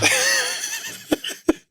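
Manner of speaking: real high laugh at his own story; burst of laughter. Real, not acted. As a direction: crack up at the mix-up.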